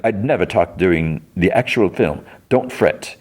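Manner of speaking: lightly voiced theatrical actor; airy reassurance, lifting at the end; Trevor Slattery. Old actor reassures an annoyed moviegoer, lightly voiced. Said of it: "So it's Trevor Slattery".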